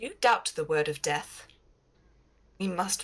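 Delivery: cold, cutting voice. Voicing a character confronting Brother Ostar: very sharp, cold, slightly louder. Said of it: "her tone is very sharp".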